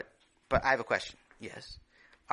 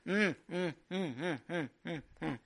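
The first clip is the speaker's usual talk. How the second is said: tongue-out humming; 3 semitones higher, 3 dB quieter than usual. Acted. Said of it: "Here, Ta, watch".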